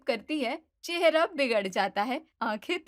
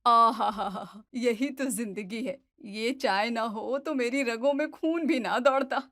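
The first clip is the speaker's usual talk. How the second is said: savoring tea. Acted. Mother-in-law enjoying her tea, blissful and pleased. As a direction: relish every word like the first sip.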